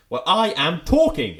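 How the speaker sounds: imitated TV dad shouting, each word stretched slowly; actorly shout. TV dad shouting at the Doctor, hammed-up loud. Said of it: "he's shouting at the doctor".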